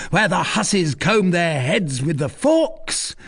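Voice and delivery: put-on loud, high rowdy drunk student; drunken rant. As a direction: bellow like a tipsy reveller. Drunk student rants at the inn.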